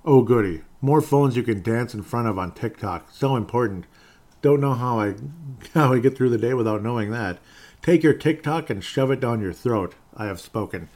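loud, mocking talk-radio rant; hammed-up sarcastic ranting pundit; sarcastic Michael Savage. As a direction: sneer it like an angry radio host. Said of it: "this is my sarcastic Michael Savage side".

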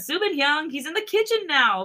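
lightly voiced younger boy; voicing a younger boy. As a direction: call out to Subin from the background.

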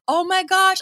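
high-pitched retold gush; delighted reaction. Idol seeing the tribute gear, imitated high-pitched delight.

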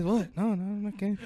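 softly spoken mock deadpan; understated, straight-faced retort; straight-faced denial. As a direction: imitate a friend quietly denying it with a straight face. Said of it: "with a straight face".

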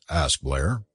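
plain reading voice

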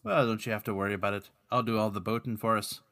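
lightly put-on Irish brogue; easy mock-Irish accent; Patrick's Irish accent. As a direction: reassure him in amateur Irish. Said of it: "Speaking of bad accents".

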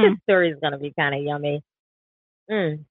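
talking through a mouthful of food; words round a bite of food; mouth full. Real, not acted. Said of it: "I can't talk with food in my mouth".

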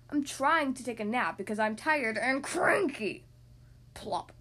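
a hint of a tired grump; lightly voiced cranky elephant. Gerald voice.

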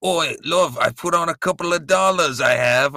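hammed-up cockney British accent. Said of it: "Your impression of me doing an impression of a British".

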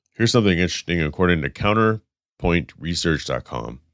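blocked nose, congested voice; stuffed up nose. Real, not acted. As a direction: talk through a stuffy nose. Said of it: "I wish I wasn't so stuffed up".

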